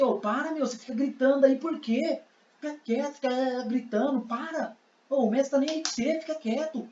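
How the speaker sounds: high, held-back telling-off; scolding crowd. Acted. Crowd scolding the blind man for shouting, high and soft. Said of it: "eles parou e falou assim".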